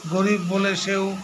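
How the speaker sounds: measured recital, phrase by phrase with pauses; poem recitation. Acted. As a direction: recite the verse line by line, deliberately. Recites his brother's poem. (কবিতা আবৃত্তি, থেমে থেমে)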